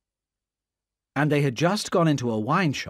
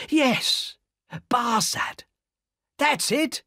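triumphant cry; 13 semitones higher, much slower than usual. Acted. Jerry recognises the spy's name, crying out in triumph. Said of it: "cried Jerry".

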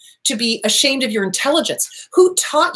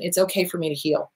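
gentle affirmation; 4 semitones lower, 6 dB quieter than usual. Shown as a demonstration. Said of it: "give yourself permission".

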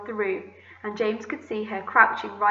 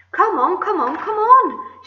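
much higher, loud, impatient yelling; impatient shout; 10 semitones higher, 9 dB louder, slower than usual. Acted. Centipede yelling impatiently at the glowworm, loud high shout. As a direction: hurry her up, shouting hard. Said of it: "shouted the centipede".

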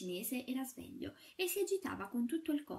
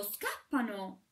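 drawn-out mock cry of the goat-legged general; slow old general's cry; 4 dB louder, much slower than usual. A narrator's reading. Goat-legged general calling the alarm, slow and stretched. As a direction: stretch it out slowly like a stiff old officer.

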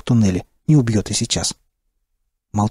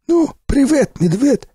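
joking greeting; slower than usual. Acted. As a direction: toss off a cheeky joke as a greeting. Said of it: "сострил Сиплый".

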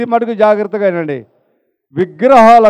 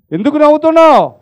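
ఎందుకు నవ్వుతున్నావు asked again higher and fast; insistent repeat; 6 semitones higher than usual. Retold or imitated. Brother presses the laughing cherub, higher and faster. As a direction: press the question, pitch up and hurried. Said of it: "అప్పుడు అన్నాడంట ఆ సహోదరుడు".

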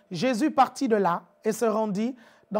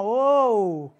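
louder drawn-out oh of amazement; astonished oh; 4 dB louder than usual. Shown as a demonstration. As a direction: show the amazement in oh. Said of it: "vous dites ça comment?".

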